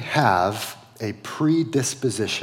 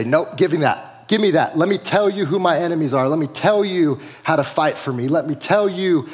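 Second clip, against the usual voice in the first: demanding sheep; 4 semitones higher than usual. Retold or imitated. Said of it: "we grab that rod and we say".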